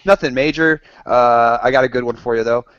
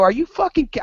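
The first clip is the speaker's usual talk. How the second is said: retold disbelief. Retelling his disbelief at Adam.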